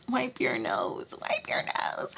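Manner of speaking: hushed, drawn-out urging; restrained disgust. Retold or imitated. Storyteller holding back at her crying ex's runny nose, hushed urging. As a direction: say it under the breath, slowly. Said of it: "trying so hard to be like".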